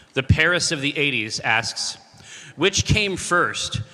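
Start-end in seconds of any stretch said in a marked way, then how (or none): 2.6-3.8 very slow, drawn-out question; slow dramatic read. Real, not acted. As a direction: savor each word slowly. Reading listener question dramatically.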